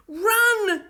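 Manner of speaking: loud, high order; cried out. A narrator's reading. Will orders the startled children to run, shouting. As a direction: shout the command. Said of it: "cried Will".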